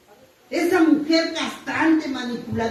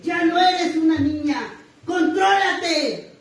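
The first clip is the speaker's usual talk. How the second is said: stern sponsor's warning; 3 semitones higher, slower than usual. Retold or imitated. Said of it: "me agarró y me dijo".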